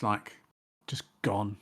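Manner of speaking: trailing off, all energy gone; deflated fade-out. Retold or imitated. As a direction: let the air out of it. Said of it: "all the enthusiasm was".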